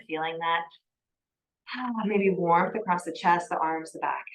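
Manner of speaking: calm, measured yoga-teacher cueing; guided yoga. Acted. Yoga teacher settling a class into breath and movement, calm guidance.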